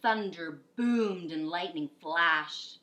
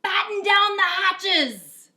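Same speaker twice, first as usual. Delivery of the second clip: shouted order; 12 semitones higher, 14 dB louder, slower than usual. Acted. Captain shouting in storm.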